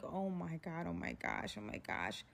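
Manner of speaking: low, hushed repeated dread; muted panic. Retold or imitated. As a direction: murmur it very low to yourself. Her dread beside armed driver.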